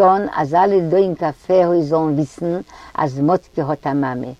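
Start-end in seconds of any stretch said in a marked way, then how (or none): none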